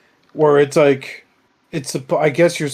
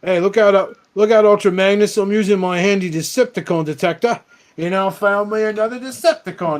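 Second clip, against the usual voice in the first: raised, goofy sidekick voice; mock goofy robot voice; 6 semitones higher than usual. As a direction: play the dopey robot showing off. Mocking Outback's catchphrase.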